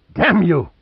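high, loud shriek. A narrator's reading. Mei Qing leaping at Pitt, shrieking. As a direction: shriek it as she leaps at him. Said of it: "shrieked Mei Qing".

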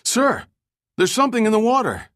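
high-pitched, alarmed lookout's cry; sudden yell. A narrator's reading. Crewman in the bow spots an object, yelling out. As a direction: yell it out, voice leaping up. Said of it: "suddenly yelled out".

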